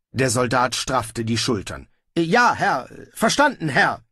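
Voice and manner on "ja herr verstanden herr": high-pitched military acknowledgement; eager obedience. Acted. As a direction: answer a superior at once, pitched up. Soldier snaps to obedience. (eifrig gehorchend)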